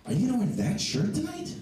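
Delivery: very high mock girlfriend voice. Comic retelling girlfriend's question about his shirt, very high mock voice. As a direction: squeak it out in a put-on falsetto. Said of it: "Like I said, she sounds high".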